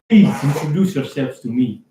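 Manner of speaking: put-on host's formal request in an African-style accent; almost African accent. Host asks the newly arrived friends for introductions, almost African accent. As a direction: ask politely, lightly African-accented. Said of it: "in, like, accent".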